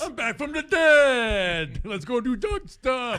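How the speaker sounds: high, slow, loud zombie shout. Pretend. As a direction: drag the words like a zombie. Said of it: "I like my zombie voice".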